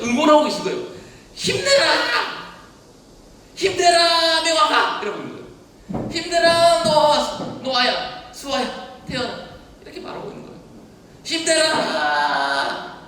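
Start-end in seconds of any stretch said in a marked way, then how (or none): 1.3-5.0 put-on loud, high, slow cheer of a parent rooting for a child; a parent cheering from the sidelines, loud and high; cheering shout. 6.1-9.5 cheering names. Acted. Parent cheering named children. 11.2-12.9 drawn-out cheer. Acted.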